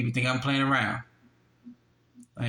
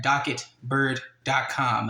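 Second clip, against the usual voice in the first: slow, spelling out docket bird dot com; slow, deliberate web address read-out; slowed down for clarity; slower than usual. Shown as a demonstration. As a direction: say "docket bird dot com" slowly so viewers can type it. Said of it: "And look up this case number".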